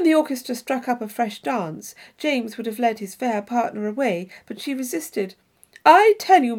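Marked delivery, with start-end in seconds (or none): 5.8-6.6 high loud exclamation; cried out. A narrator's reading. Isabella protesting to James about dancing, cried out. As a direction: cry it out in protest. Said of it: "she cried".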